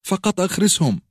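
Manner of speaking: فقط hit highest, then أخرسهم falling; screaming. A narrator's reading. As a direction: break on فقط in a shriek. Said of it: "وصرخت".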